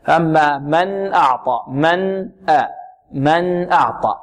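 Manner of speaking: slow «من أعطى» with a clear still noon, nasal hum not prolonged. Shown as a demonstration. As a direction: model «من» cleanly before the hamza of «أعطى». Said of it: "بغنة غير زائدة". (إظهار نون «من» بغنة غير زائدة)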